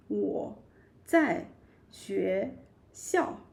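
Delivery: "我 在 学校" split into separate words with pauses. Shown as a demonstration. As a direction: break it into single words. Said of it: "so you just say".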